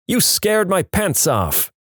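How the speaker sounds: high, drawn-out exclamation at normal volume; mock scream. A narrator's reading. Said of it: "and he screams".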